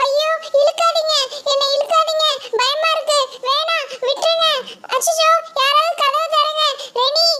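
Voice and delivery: high, panicked pleading for help; frightened pleading. Acted. Mini being dragged into the bungalow, begging Reni, panicked. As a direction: beg them to let go, terrified.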